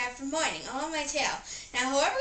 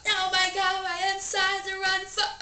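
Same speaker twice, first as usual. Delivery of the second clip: pained wail; 6 semitones higher than usual. Acted. Insides burning after burping.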